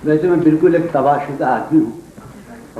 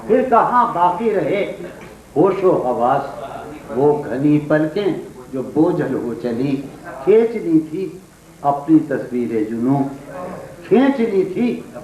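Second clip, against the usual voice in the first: poetry recitation. Acted. Poet reciting a couplet to an audience, declaimed verse. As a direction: declaim the verse phrase by phrase, with pauses.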